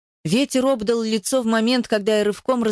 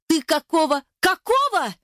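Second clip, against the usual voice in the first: much higher, rising shout cut short; shouting woman; 8 semitones higher than usual. Acted. Eva shouts at Ruslan, interrupting him, high-pitched shout. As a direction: cry it out at him, cutting him off. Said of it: "крикнула она".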